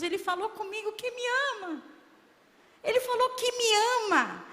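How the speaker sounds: rising, high exclamation of wonder; exultant amazement. Retold or imitated. Reliving amazement at God's love. (exclamação maravilhada, subindo de tom)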